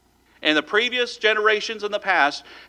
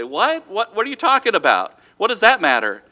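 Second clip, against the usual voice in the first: puzzled retort; 4 semitones higher, 5 dB louder than usual. Acted. Congregation's puzzled retort, acted.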